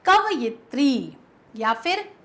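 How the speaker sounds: कवयित्री and कवियित्री each drawn out slowly; slow careful reading. Shown as a demonstration. Teacher slowly reading the answer choices. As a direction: read the choices slowly and clearly. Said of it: "बताइए कौन सा शब्द सही है".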